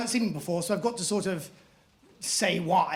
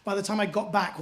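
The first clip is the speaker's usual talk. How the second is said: usual speaking voice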